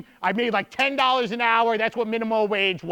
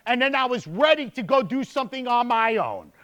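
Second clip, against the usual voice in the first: normal talking voice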